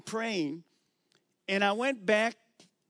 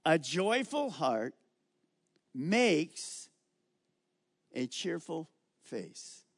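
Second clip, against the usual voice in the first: preacher reading scripture slowly to the congregation; much slower than usual. Shown as a demonstration. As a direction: read the verse slowly, each word weighed. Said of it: "Now look at that verse".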